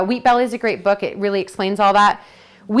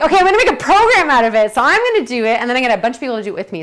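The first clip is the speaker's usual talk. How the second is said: determined resolve; 2 semitones higher, 4 dB louder, much faster than usual. Retold or imitated. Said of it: "So I was like".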